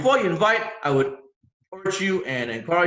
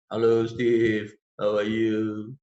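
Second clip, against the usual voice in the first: slow, lower, lifeless hello; dead fish greeting; 4 semitones lower, much slower than usual. Shown as a demonstration. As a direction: sound bored and flat on the phone. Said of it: "That's bad. That is really bad".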